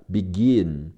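"begin" with the stress on gin; stress on second syllable. Shown as a demonstration. Teacher pointing out word stress, stressed second syllable. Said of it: "注意重音在g的前面".

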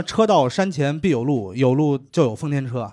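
slow, measured ad slogan; ad slogan read. Retold or imitated. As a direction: read it like an old TV ad. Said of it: "很多人跟我提过".

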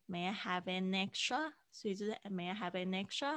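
"an extra" run together as "anextra"; linked an extra. Shown as a demonstration. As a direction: flow "an" into "extra". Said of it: "an又可以跟extra连在一起".

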